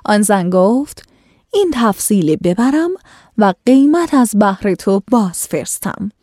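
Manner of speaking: measured, formal storytelling read; classical story reading. A narrator's reading. Host reading an old tale to listeners, formal narration.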